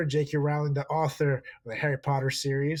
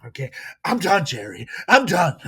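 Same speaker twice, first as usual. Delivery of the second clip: Kramer impression; 3 semitones higher, 5 dB louder than usual. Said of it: "like Kramer from Seinfeld".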